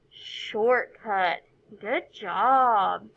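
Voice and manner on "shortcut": "Shortcut" run together as one word; no pause inside "Shortcut"; "Shortcut" said whole as the final word; joined syllables. Shown as a demonstration. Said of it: "say our final word".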